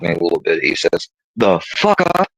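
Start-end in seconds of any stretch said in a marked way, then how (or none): 1.4-2.3 a father's stern, raised warning; retold stern dad bark; stern loud rebuke. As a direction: snap it at your son like a strict dad. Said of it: "he said very sternly, loudly".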